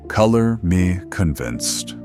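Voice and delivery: slow, deadpan sarcasm; sarcastic. Acted. Radio host doubting the doctor's credentials, sarcastic. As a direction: drag it out, pointedly unimpressed.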